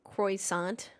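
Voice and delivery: Croissant whispered as kwah-sahn; teasing French whisper of Croissant. Shown as a demonstration. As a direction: breathe Croissant out French-style. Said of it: "Can I say it?".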